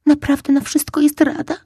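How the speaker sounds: high, loud disbelieving question; can't believe his luck, pitch jumping up. Acted. Fox asks the squirrel in high, loud disbelief. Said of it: "spytał niedowierzająco".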